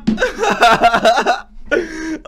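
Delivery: very high-pitched cackling laugh; gleeful cackle. Real, not acted. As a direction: cackle away high in triumph. Gloating after getting away.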